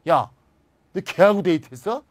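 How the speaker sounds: startled, pressing ask; surprised question. Shown as a demonstration. Teacher voicing surprised question in Korean. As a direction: ask in disbelief. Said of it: "놀람을 표현하고 있는 거죠".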